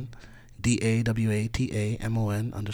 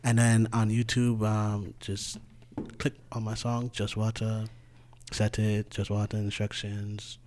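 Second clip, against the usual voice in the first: softer, smooth sexy voice; 7 dB quieter than usual. Acted. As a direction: ease into a sexy voice. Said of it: "notice he put on his sexy voice again".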